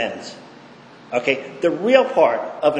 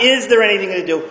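lightly raised, offhand asking; wrong way to ask; 4 semitones higher, 3 dB louder, faster than usual. Shown as a demonstration. Sponsee asking mother the wrong way, offhand. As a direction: ask it casually, as if to dodge.

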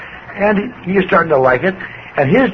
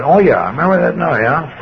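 sheepish laugh. Retold or imitated. Caught out, laughs it off.

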